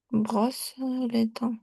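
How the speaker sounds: slow, clear teacher model; slow model phrase. Shown as a demonstration. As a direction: say it slowly for the student. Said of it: "je me brosse". (lentement, comme modèle)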